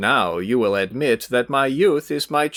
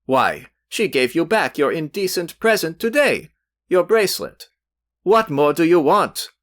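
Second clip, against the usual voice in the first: hot indignation; 7 semitones higher than usual. A narrator's reading. Youth berates his rival before Velchaninov, rising heated indignation. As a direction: build a young man's heated tirade. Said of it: "turning hotly to Velchaninov".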